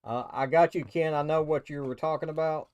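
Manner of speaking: loud call to someone away; yelling across the room. Real, not acted. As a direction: shout it over to Ken. Calling back to Ken off-mic.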